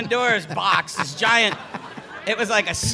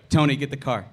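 lower, deadpan own voice; real voice; 5 semitones lower than usual. Retold or imitated. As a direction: say it low and plain. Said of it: "first time I ever used my real voice".

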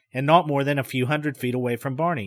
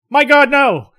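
horrified cry; 11 semitones higher, 11 dB louder, slower than usual. Retold or imitated. Inner exclamation of horror.

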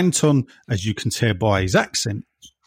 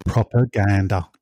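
telephone voice. Acted. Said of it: "I did that with my telephone voice".

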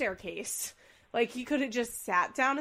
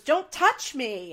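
mock defensive yell; 4 semitones higher, 7 dB louder, slower than usual. Retold fight quote.

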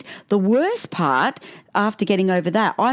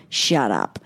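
low, blunt retort; imitated son, pitched well down; retold dismissive child; 9 semitones lower than usual. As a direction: shut Mum down, unbothered. Son repeats his blunt retort.

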